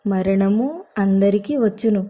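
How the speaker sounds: slow, solemn reading of the verse; slow scripture reading. Acted. Wife reads the verse her finger landed on, solemn and slow. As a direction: read it out like a Bible verse, unhurried. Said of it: "ప్రసంగి ఏడవ అధ్యాయము రెండవ వచనం".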